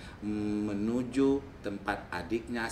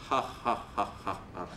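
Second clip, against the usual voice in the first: giant's laugh. Acted. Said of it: "kata si raksasa itu".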